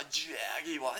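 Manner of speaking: "Jaguar" softly drawn out as JAG-ee-wah; British "Jaguar" in three syllables, no final r; British pronunciation. Acted. Mocking British car owner saying "Jaguar", soft JAG-ee-wah. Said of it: "dumbasses in Britain".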